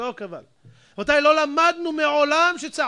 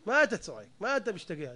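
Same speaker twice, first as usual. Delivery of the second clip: softer, lower, unexcited reproof; calm reproof; 4 semitones lower, 5 dB quieter than usual. Shown as a demonstration. Preacher showing how to answer a shouter, calm reproof. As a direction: ask it quietly, without raising the voice. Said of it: "דבר בנחת".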